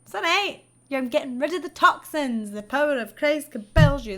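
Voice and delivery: mock quack doctor. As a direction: brush off the patient's pain with a mock soothing chant. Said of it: "she'd be like".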